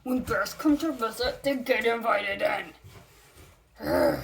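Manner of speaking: slow, tearful mock-cry of the line; milk the bear's line like a weepy melodrama; mock sobbing. Rereading the bear's line as a hammed-up tearful plea. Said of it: "Oh, you can't even s".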